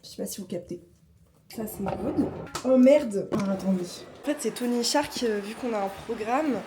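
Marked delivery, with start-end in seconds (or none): 2.7-3.8 startled. Real, not acted. Device suddenly starts making noise.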